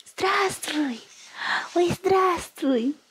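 high, slow cooing greeting. Real, not acted. Mother greeting baby.

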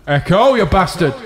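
echoing under a bridge. Real, not acted. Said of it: "so echoey in here".

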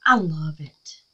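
a hushed, smitten I love it; delighted whisper. Real, not acted. Gushing to viewers over her craft, whispering. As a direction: breathe it with love.

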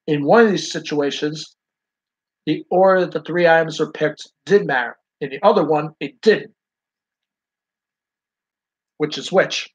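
talking through a mouthful of taffy; words round sticky chewy candy; chewing taffy. Real, not acted. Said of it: "I'm in the middle of mid-chewing taffy here".

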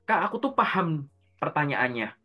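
mildly imitating a puzzled student's complaint; retold complaint. Student confiding in a coach about interview trouble, mildly complaining. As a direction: voice a student lightly griping to a coach. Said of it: "kalau ngeluh ke aku tuh".

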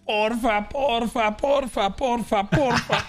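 pleading. Acted. Begging, building.

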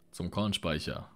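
shouted command. Acted. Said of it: "brüllte er".

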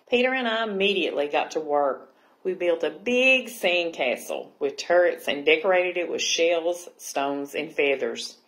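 lively, projected picture-book reading; story narration. A narrator's reading. Librarian reading Aqualicious to children, animated storytelling. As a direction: read it out clearly to young listeners.

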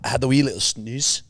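put-on Scottish accent; Scotsman demo. Shown as a demonstration. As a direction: show how a Scotsman would say it. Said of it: "Like a Scotsman".

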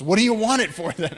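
mildly voiced local man, baffled; incredulous loud question. Logger asks, retold.

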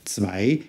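"Zwei" begins with "ts" and then a "v"; German Zwei. Shown as a demonstration. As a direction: say "Zwei" as "tsvai". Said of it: "the all-important S sound at the beginning".

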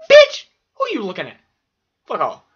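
loud, high furious snap; teacher snapping. Retold or imitated. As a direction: hurl it at the kid who spilled milk. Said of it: "She looks at me and goes".

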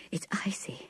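a soft, breathless gasp over the cold water. A narrator's reading. Connie tasting the icy well water, gasping softly. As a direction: catch your breath at the chill. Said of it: "she said, gasping".

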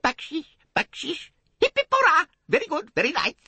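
put-on high, whining children's voices; plaintive begging children. A narrator's reading. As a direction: beg like street urchins, plaintively. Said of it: "murmuring plaintively".

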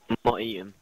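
talking through a mouthful; words round a bite of food; mouth full. Real, not acted. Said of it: "what the hell was that".

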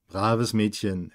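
man praising her close by; low slow murmur. Acted.

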